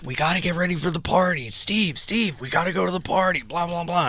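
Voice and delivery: lightly voiced excited neighbors; partygoers' chatter. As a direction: rattle it off like giddy partygoers. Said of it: "and they're like".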